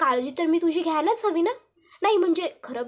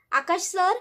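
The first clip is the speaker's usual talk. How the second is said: lightly raised, questioning call; 3 semitones higher, slower than usual. Acted. Ishwari looking for Akash downstairs, mildly calling out. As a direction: call out for someone in the house. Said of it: "आकाशला हाक मारत असते".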